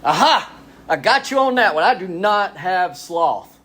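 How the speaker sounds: high, punchy gotcha; triumphant comeback. Retold or imitated. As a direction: crow it like you've caught them out. Triumphant retold comeback to someone.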